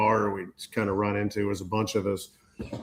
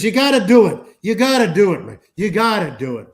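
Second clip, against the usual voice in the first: a touch of pushy excitement, higher and louder; mock eager urging; 8 semitones higher, 5 dB louder than usual. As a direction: egg him on like the cruise buddy, hammed up lightly. Buddy urging him on, imitated.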